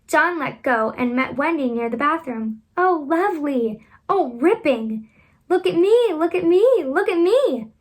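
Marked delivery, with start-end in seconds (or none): 2.8-7.7 high, loud and gleeful calls; thrilled. A narrator's reading. Children calling out while flying, thrilled. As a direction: crow with delight at flying.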